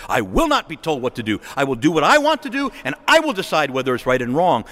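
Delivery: voicing a defiant refusal with mild force; imitated stubborn self-will; mock defiance. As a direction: insist on having your own way. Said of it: "That is the defiance of our times".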